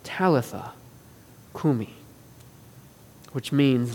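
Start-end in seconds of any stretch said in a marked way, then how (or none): 0.0-1.9 soft, unhurried gentle call; tender. Retold or imitated. Jesus takes the young girl by the hand, tender. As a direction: call her gently, pausing between words. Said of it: "approaches her with such tenderness".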